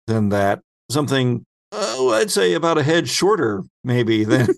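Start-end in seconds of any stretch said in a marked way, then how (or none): none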